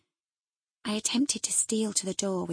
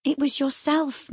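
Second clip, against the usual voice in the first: firm correction; 7 semitones higher, 6 dB louder than usual. Acted. Nelly firmly correcting Catherine.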